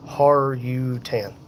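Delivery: Har-U-Tan sounded out slowly in three separate parts; careful name pronunciation. Real, not acted. Streamer trying a viewer's name, Har-U-Tan slowly sounded out. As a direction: say "Har-U-Tan" at half speed, feeling out each syllable. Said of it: "the name is pronounced like".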